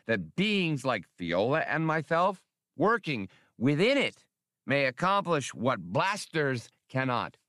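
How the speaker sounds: lightly voiced prim little official; Spray's voice. Spray speaks, voiced by narrator.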